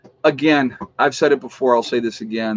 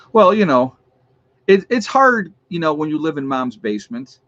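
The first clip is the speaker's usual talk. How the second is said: mock sympathy; 3 semitones higher than usual. Mocking the troll's hard life.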